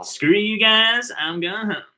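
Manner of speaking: very high, loud, drawn-out squeal; Cartman. Acted. Showing off a cartoon impression mid-game, loud high squeal. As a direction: stretch it out in a piggy cartoon squeal. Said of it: "high-pitched squeal voice".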